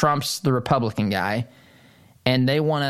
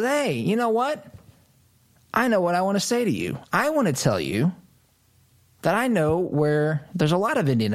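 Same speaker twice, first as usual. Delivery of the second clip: high, lightly mocking Biden voice, half-hearted; a hint of old Biden rambling, teasing; mock Biden impression; 5 semitones higher than usual. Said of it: "That's what he says".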